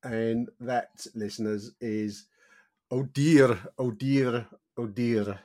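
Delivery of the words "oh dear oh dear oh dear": slightly raised Welsh lilt, rolled R's; Welsh accent. Shown as a demonstration. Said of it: "say it in a Welsh accent".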